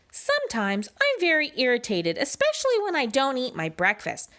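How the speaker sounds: proper rascal. Acted. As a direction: speak like a well-mannered fellow. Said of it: "replied the rascal".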